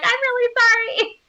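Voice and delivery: put-on very high girlish whine; hammed-up pleading cry; mock tearful apology. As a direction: whimper it in a squeaky heroine voice. Heroine's tearful apology, acted.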